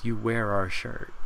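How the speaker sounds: put-on slow, lightly done British accent; a hint of British, slowed down. Rey pointing at his shirt, in a light, slow British accent. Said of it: "wonderful British voice".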